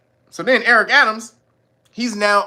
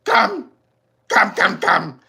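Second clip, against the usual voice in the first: mock calling; much slower than usual. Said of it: "his dumb ass was".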